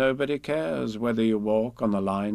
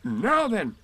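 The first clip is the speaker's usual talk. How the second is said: high, heavy donkey voice; Eeyore; 9 semitones higher than usual. A narrator's reading. Eeyore shifts his hoof to hear, laboured raised voice.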